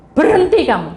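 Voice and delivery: rebuking command. Retold or imitated. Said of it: "Tuhan hanya menghardik".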